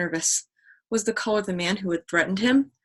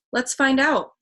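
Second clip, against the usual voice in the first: higher, louder eager urging; 6 semitones higher, 4 dB louder, slower than usual. Acted. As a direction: push them to go now. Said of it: "he urged".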